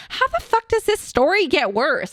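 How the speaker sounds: high-pitched, hammed-up exasperation; exasperated disbelief. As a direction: act out being at your wit's end. Acting out her exasperation at bad news.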